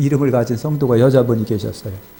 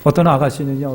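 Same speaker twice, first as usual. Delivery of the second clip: normal talking voice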